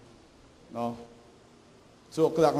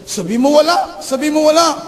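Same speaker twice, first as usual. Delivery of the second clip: high, pressing repeat; hidden mother urging; 9 semitones higher, 3 dB louder than usual. Retold or imitated. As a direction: push the child to lie. Mother hissing from inside. (mataas na pilit ng nanay na nagtatago)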